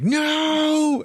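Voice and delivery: high, loud cry of disbelief; shocked outburst. Retold or imitated. Passenger hearing the trip takes ninety years, high loud shocked cry. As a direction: yelp it out in horror. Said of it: "And he's like".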